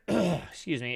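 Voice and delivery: cracking voice after throat clear. Real, not acted. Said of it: "my voice is cracking today".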